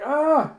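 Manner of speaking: high, loud short scream; retold shriek of alarm. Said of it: "And she screams out".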